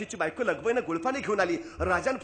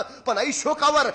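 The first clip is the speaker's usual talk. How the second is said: pleading king; 10 semitones higher, 9 dB louder, slower than usual. Acted.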